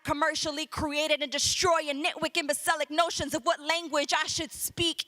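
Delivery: rhythmic, driving slam poetry delivery; spoken word poem. Acted. Poet defending their Puerto Rican speech, rhythmic slam delivery. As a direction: punch out the syllables in a steady beat.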